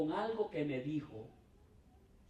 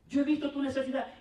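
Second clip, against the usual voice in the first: mocking prophet; 7 semitones higher, 5 dB louder, faster than usual. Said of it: "Así dice el Señor".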